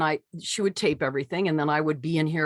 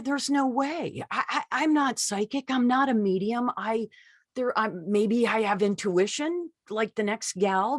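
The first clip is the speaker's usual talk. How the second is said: higher, flustered self-protest; panicked doubt; 6 semitones higher than usual. Retold or imitated. Doubting herself while starting to channel, flustered and higher. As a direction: fret that you're no psychic.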